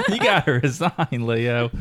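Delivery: joking Cockney sliding into Australian; Cockney attempt that drifts Australian, near laughter; mock Cockney-Australian muddle; botched Cockney accent. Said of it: "Cockney to Southern to Australian".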